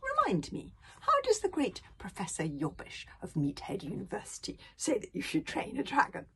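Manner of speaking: put-on high-pitched musing old man; thoughtful. A narrator's reading. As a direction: muse lightly as grandfather. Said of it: "said old Wrinkly thoughtfully".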